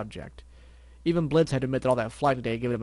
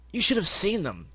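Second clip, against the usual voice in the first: complaining pony voice; 7 semitones higher than usual. Acted. Pegasus complaining.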